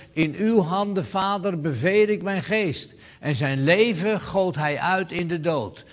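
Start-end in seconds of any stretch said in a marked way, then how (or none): 0.1-2.9 loud and high, calling out to the Father; loud cry. Acted. Preacher voicing Jesus calling loudly to the Father. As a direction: cry it out with full strength, not exhausted. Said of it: "En dan met luider stem".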